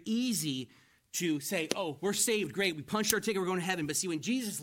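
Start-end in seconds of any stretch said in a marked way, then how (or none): 1.8-3.9 mock glee. Voicing glib, happy believers.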